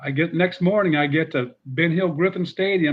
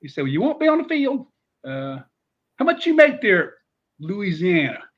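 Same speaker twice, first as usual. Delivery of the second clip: higher, businesslike questions; Spurrier impression; 6 semitones higher, 4 dB louder than usual. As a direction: quiz him on pay, pitched up. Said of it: "He says".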